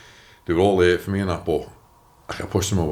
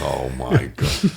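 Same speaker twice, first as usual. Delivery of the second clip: inner dread; 5 semitones lower, much slower than usual. Retold or imitated. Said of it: "and I'm thinking".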